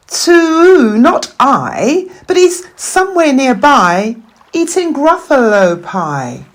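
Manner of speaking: high, quick hooting voice; hooting owl. Acted. Owl answering the Gruffalo's child, high and hooting. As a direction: hoot it like an owl.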